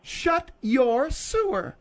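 slow, stern order; stern command. Acted. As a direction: put him in his place, drawing out each word. Domineering woman scolds cowed man.

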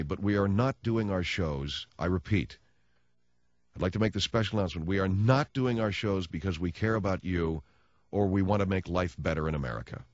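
low, measured public announcement; special announcement. Real, not acted. Radio host announcing on behalf of all talk show hosts, measured formal delivery. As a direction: read it out as an official statement. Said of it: "I'll make the announcement".

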